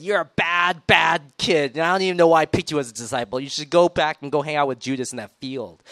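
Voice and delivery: a hammed-up scold of a bad kid; mock shouting. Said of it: "just shouted at him and said".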